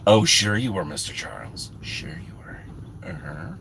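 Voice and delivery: low, soft skeptical aside sinking to a whisper; mock disbelief. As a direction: let the teasing doubt trail into a whisper. Doubting a viewer's claim.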